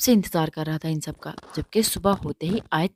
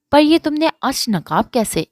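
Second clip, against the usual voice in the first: high, loud astonished asking; surprised question; 8 semitones higher, 7 dB louder than usual. A narrator's reading. Eman asking Ayesha about her veil, surprised. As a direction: caught off guard by the veil. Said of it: "حیران ہوتے ہوئے پوچھا".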